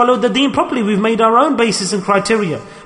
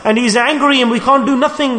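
mild retold shriek; 5 semitones higher than usual. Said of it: "The other daughter shrieked out".

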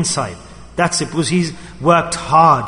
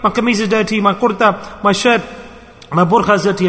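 mock crying; 2 semitones higher than usual. Preacher mimicking someone crying over dirty clothes, mock wailing. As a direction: pretend to wail over a trifle. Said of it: "Everyone crying".

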